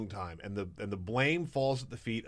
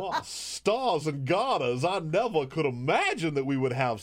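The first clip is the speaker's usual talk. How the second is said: put-on Southern belle accent; 3 semitones higher than usual. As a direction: swoon like a Southern belle, drawing it out. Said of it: "in that accent".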